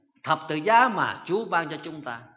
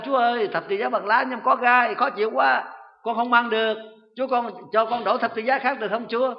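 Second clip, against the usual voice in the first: higher, louder plea to the Lord; crying out; 6 semitones higher, 3 dB louder than usual. Retold or imitated. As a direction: cry out to God in complaint. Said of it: "bà la lên".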